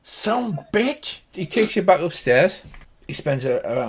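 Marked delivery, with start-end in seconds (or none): 0.0-1.2 high, drawn-out cowboy curse; high-pitched country dismay; cursing Slim Pickens. Acted. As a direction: curse to yourself like an old farmer. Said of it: "If you imagine Slim Pickens".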